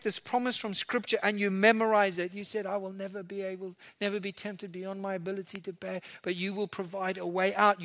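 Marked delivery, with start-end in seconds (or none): 2.3-2.6 said soft and close; hushed prayer. Shown as a demonstration. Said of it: "you emphasize each word". 2.6-7.8 soft, intimate recital of the promise; hushed prayer. Shown as a demonstration. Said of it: "you emphasize each word".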